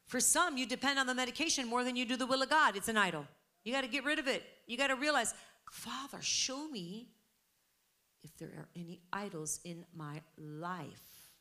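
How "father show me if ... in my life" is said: prayer. Acted. Voices a model prayer.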